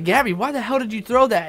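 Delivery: angry yell at Gabby. Retold or imitated. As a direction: retell the outburst at the girl who threw the cup. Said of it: "I was so freaking pissed".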